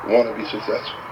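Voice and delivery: low-pitched, restrained frustration; mildly exasperated acted reply; a little frustrated. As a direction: answer with a touch of frustration. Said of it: "The young man's a little frustrated".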